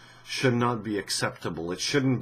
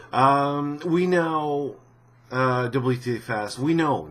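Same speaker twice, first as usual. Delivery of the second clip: mock developer voice; 6 semitones higher, 6 dB louder, slower than usual. Mock-reading the developer statement.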